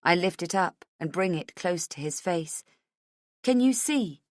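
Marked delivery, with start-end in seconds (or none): 3.4-4.2 high urgent question; insistent. A narrator's reading. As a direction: demand that he look. Asking again with photo held up.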